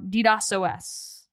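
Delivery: slow, deliberate letter-by-letter "D dos O S"; slow spelled pun. Shown as a demonstration. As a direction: say "D dos O S" slowly, the letters spaced apart. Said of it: "D dos S O S combined".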